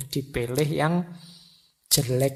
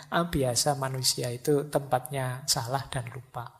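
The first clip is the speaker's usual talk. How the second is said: mildly unbothered, tailing off softer; easygoing self-reassurance; 2 semitones lower, 6 dB quieter than usual. Acted. Positive thinker shrugging off a forgotten key, easygoing. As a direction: accept the slip softly, letting the pitch settle. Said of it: "Kalau yang positif kan ndak sedasar itu".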